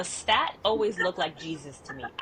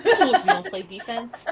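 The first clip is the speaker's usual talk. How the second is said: loud mock sideline scolding; basketball-girl outburst; 3 semitones higher, 8 dB louder than usual. Former player yelling at kids from stands, loud mock scolding. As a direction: holler at the players, half in fun. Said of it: "the basketball girl in me is like".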